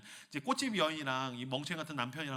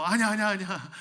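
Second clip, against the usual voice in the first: "아니야" repeated loud and fast; king blurts no to the ninja, loudly; loud hasty refusal; 4 semitones higher, 8 dB louder than usual. Acted. King stops the guard, loudly refusing.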